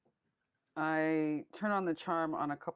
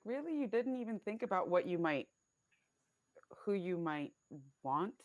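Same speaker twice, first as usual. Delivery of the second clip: incredulous, higher-pitched questioning; pressing; 4 semitones higher than usual. Acted. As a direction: press him in disbelief, opening high. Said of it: "I would also like to press him".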